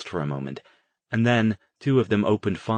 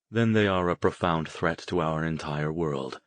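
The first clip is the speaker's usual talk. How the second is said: dispassionate; 2 semitones lower than usual. Acted. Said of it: "Harrison said dispassionately".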